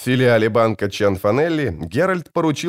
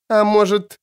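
sour; 12 semitones higher, 4 dB louder than usual. A narrator's reading. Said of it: "кисло спросила она".

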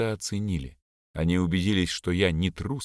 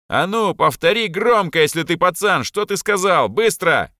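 much higher and louder, yelling in rage; enraged boy screaming at a rival; furious shout; 10 semitones higher, 7 dB louder than usual. Acted. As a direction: bark the demand at him like a fight is coming. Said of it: "крикнул я".

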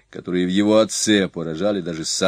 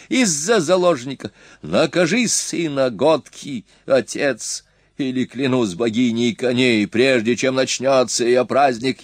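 berserk rage; 3 semitones higher than usual. Acted. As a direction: hurl threats in a fury. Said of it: "В ярости закричал джангизец".

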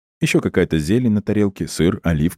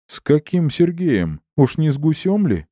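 jealous disbelief; 10 semitones higher than usual. A narrator's reading. Jealous narrator squeals in disbelief.

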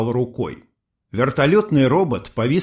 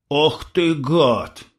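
startled fear; 2 semitones higher, much slower than usual. A narrator's reading. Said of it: "испуганно дёрнулся юноша".

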